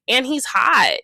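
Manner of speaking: a quick excited burst of praise; excited gush. Real, not acted. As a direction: swoon over how hot he is. Gushing about a cast member.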